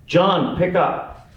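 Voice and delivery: high sing-out to another room; calling out. Acted. Wife calling husband to the office extension, calling out. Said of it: "they'd call out for the other".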